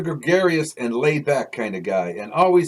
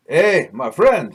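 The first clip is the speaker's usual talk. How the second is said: slow, loud French Canadian greeting; French accent; 3 semitones higher, 6 dB louder, slower than usual. Acted. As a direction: call out warmly in a French accent. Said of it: "speaking to me in his heavily French accented English".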